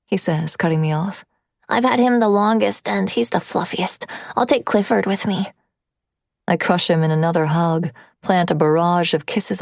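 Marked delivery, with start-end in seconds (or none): 1.7-5.5 put-on child voice. Narrator voices the son.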